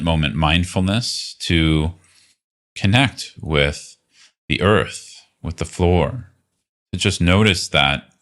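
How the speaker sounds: calm, unhurried guiding voice with long pauses; guided meditation. Real, not acted. Teacher leading listeners through a body scan, guided meditation. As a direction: lead a body scan gently, leaving space between phrases.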